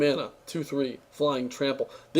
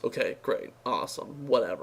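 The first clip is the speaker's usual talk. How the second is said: sarcastic dismissal; 3 semitones lower, 6 dB quieter than usual. Real, not acted. Dismissing dull flavor text.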